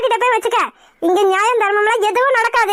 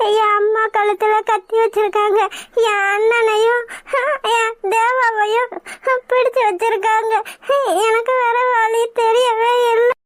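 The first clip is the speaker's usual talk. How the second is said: tearful confession. Acted. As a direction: let the tears come, then break out in despair. Bride forced into marriage.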